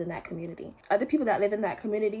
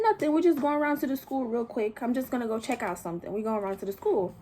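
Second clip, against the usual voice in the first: higher, breezy "nothing" masking anger; falsely casual; 3 semitones higher than usual. Retold or imitated. Aunt brushing off nosy neighbours, higher, falsely casual. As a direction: play it light like nothing's wrong. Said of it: "my aunt's like".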